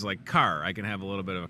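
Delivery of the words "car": slight Chicago accent on "car"; lightly Chicago-tinged "car". Shown as a demonstration. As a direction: give "car" a touch of Chicago. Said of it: "I don't have a Chicago accent, except on certain words".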